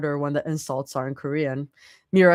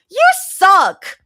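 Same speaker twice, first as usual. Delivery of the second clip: loud yell; 11 dB louder than usual. Acted. Rumi yells at teasing Mira.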